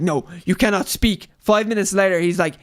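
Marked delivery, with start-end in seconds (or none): 0.0-1.3 lightly put-on soldier's accent, done poorly; Grey Worm's accent, badly faked. Podcaster imitating a soldier silencing a prisoner, terrible mock accent. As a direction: attempt his accent as he forbids speech.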